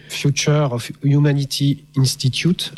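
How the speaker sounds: slow English name in a French-tinged English accent; self-mocked English accent. Real, not acted. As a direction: attempt an English accent, taking it slowly. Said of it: "avec mon super accent anglais".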